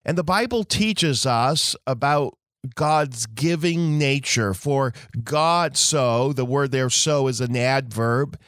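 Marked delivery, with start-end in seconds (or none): 4.5-6.3 slow, lean on "so"; "so" held long and rising; stress on so. Shown as a demonstration. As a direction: draw out "For God so" and let "so" hang. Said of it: "It adds emphasis to the verb love".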